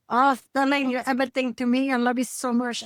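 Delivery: mock-adoring Asian-accented mother; heavy Asian accent. Mom doting on her favorite Sterling, imitated Asian accent. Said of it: "that was a really heavy Asian accent".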